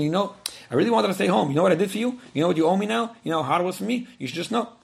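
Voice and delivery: resentful, guilt-tripping complaint; not nice way. Acted. Wife resentfully reminding husband what she sacrificed, guilt-tripping. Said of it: "sometimes you can say the same thing in a not nice way".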